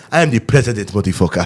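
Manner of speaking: mock African accent; lightly hammed-up African accent. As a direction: put on an African accent for comic boasting. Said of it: "favorite word to say in Africa".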